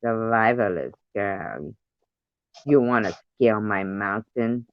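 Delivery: lightly voiced seductive spy woman; a hint of a sultry Russian spy; sexy Russian spy. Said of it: "do as beautiful women, like Ghost".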